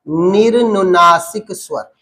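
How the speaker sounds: निर्नुनासिक स्वर spelled out slowly, each syllable clear; slow for repeating. Shown as a demonstration. Teacher dictating the new term to students, slow. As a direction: lay out निर्नुनासिक स्वर slowly for the class to copy. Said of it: "रॉ के नीचे हलंत लगाना है".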